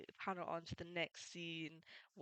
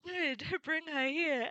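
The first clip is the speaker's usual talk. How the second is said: higher, slow and louder, a gloating pirate captain; Buggy voice; 9 semitones higher, 6 dB louder, slower than usual. Retold or imitated. Pirate captain gloating to his crew, slow and higher. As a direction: savor the order like a smug captain. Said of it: "And Buggy's like".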